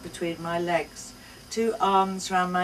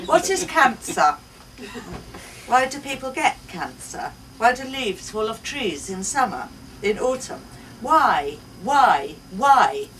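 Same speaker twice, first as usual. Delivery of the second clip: put-on high child's voice getting much louder; child's why building to a loud plea; 4 semitones higher, 8 dB louder than usual. A narrator's reading. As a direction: pester harder and louder like a toddler.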